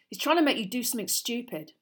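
high, loud, heated warning; savage warning. Acted. Ron warns Harry about Malfoy, savagely. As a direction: warn him with angry force. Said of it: "said Ron savagely".

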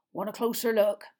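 eager question, voiced a little larger; mildly excited. A narrator's reading. Hagrid showing Madame Maxime the dragons, mildly excited. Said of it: "Hagrid asked Madame Maxime excitedly".

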